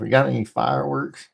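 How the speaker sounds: Joe Dirt quote. Retold or imitated. Repeating the Joe Dirt line for chat in a mock hick voice. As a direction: toss it off like a backwoods guy. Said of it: "Sounds like some Joe Dirt stuff".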